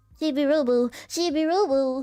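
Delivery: put-on voice without nasal sound. Showing how to do a character voice: Chibi-Robo voice. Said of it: "you just gotta talk without nose".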